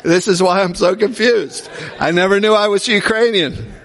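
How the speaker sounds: laughing through the words; amused disbelief, laughing along. Real, not acted. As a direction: say it with a real laugh in the voice. Amused by family's surprise ancestry.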